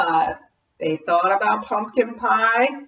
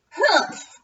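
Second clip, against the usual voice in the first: grumpy witch; 11 semitones higher than usual. Acted. Witch grumbles.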